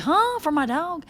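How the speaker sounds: hammed-up shock at the label; mock disbelief. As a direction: squeak it out in baffled surprise. Reacting to dog food label.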